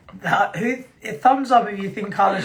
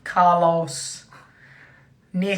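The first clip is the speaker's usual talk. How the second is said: put-on American announcer accent; much slower than usual. Host announcing the US tour crew, mock American accent. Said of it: "do it in my American accent".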